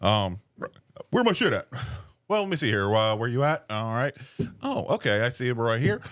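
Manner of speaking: polite phone greeting, lightly put on; customer service voice. Shown as a demonstration. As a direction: answer the call like a friendly rep. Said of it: "that's definitely my phone voice".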